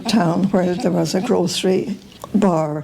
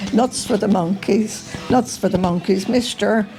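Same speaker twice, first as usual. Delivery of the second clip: lightly put-on Dublin accent, calling out wares; a hint of a Dublin hawker crying nuts to passers-by; mild Dublin accent, slightly raised pitch; Dublin street seller accent. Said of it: "in her best Dublin accent".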